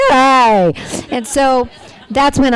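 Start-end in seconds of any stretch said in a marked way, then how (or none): 0.1-0.7 put-on a kid whose voice just broke, louder; voice broken by puberty. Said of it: "all of a sudden he's like".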